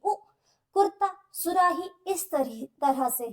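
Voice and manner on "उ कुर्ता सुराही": उ and कुर्ता, सुराही said quickly and higher, with a short u; quick, bright examples of the short u; short u sound quick. Shown as a demonstration. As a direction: clip the u in कुर्ता short and light. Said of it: "वो जल्दी सुनाई देगी".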